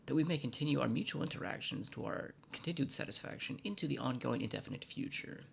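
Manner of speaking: rapid, pompous humble apology; long-winded formal apology, rattled off; over-polite apology. Acted. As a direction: gush it out fast like a groveling bureaucrat.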